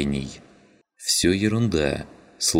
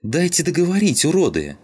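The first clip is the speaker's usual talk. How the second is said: high, loud furious yell; 13 semitones higher, 4 dB louder than usual. A narrator's reading. Rodka yells at the bickering men, furious. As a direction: scream them down, not like a kid. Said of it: "заорала совсем не по-детски".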